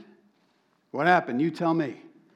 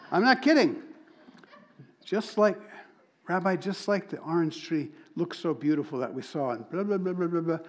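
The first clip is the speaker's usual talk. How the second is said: laughing; 4 semitones higher than usual. Real, not acted. Laughing while retelling own parable.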